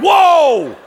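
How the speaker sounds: loud, high, drawn-out whoa; startled shout. Retold or imitated. Preacher reliving the pig's interruption, startled shout. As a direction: yell out as if caught off guard. Startled by pig during his sermon.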